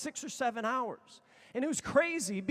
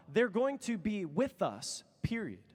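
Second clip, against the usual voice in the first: slow deadpan reading; slower than usual. Retold or imitated. Reading his friend's text message aloud, slow and deadpan. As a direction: spell out the punctuation slowly.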